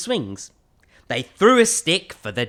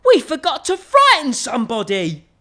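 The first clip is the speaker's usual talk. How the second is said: higher and louder, mock-spooky regret; big skeleton voice; 10 semitones higher, 8 dB louder than usual. Big skeleton tells the little one they forgot to scare anyone.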